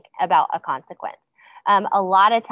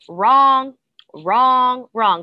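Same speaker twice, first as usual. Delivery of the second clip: loud, higher, repeated correction; critical coach; 5 semitones higher, 7 dB louder, much slower than usual. Acted. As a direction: call out each word like a scolding coach. Imitates a coach only criticizing.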